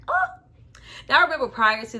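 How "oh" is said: swooning oh. Real, not acted. Swooning over actor.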